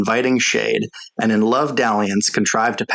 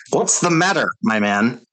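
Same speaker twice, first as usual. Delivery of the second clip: surprised cry. A narrator's reading. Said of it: "cried the general".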